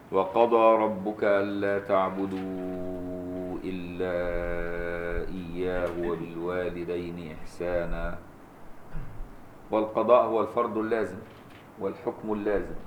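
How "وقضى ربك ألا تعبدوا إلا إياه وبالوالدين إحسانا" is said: slow, drawn-out chanted recitation; Quran recitation. Acted. Teacher recites the verse to his student in slow chant. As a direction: recite the verse with measured melody.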